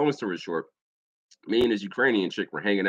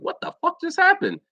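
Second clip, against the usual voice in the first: high-pitched startled question; mock bewilderment. Going up to the bar to ask about commotion, mock bewildered. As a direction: act out a baffled double take.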